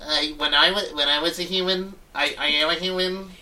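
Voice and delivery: lightly voiced weird tool; a hint of a stilted, halting non-human; Mark Zuckerberg. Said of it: "he sounds like such a fucking weird-ass tool".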